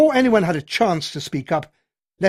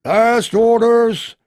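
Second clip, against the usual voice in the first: apologetic call; 8 semitones higher, 10 dB louder, much slower than usual. A narrator's reading. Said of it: "almost apologetically".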